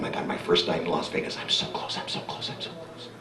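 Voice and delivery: hushed, breathless whisper fading to almost nothing; awed whisper. Retold or imitated. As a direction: whisper it to yourself, barely daring to hope. Awed whisper at stage door.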